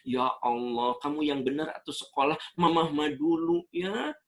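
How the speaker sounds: nagging mother. Retold or imitated. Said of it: "Nah, nanti tiga bulan kemudian".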